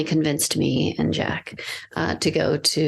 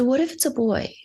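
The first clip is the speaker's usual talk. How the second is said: put-on teen boy; 7 semitones higher than usual. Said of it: "And he said".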